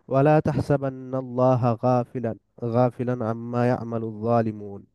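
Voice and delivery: measured Quranic recitation; teacher reciting a verse to the class, measured. Acted. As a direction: recite the verse in a steady chant.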